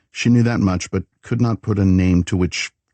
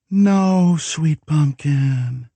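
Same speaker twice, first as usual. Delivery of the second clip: said softly; 10 semitones higher, much slower than usual. A narrator's reading. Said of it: "he said softly".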